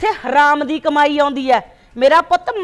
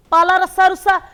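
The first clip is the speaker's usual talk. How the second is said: louder, higher bitter taunting; angry taunt; 4 semitones higher, 5 dB louder than usual. Acted. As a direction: spit out the cruel dare. Wife tells husband to die. (ਗੁੱਸੇ ਵਿੱਚ ਕੌੜਾ ਤਾਅਨਾ)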